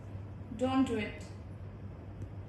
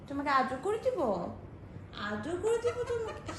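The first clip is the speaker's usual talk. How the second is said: laughing coo. Real, not acted. Aunt offering the toddler a cuddle, laughing. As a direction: giggle while offering a cuddle.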